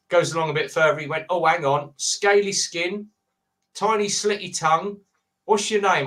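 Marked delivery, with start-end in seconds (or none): 1.3-6.0 retold sketch, mock Aussie nature-show voice; mock Australian accent. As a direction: creep through it like a wildlife presenter. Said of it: "people doing the accent".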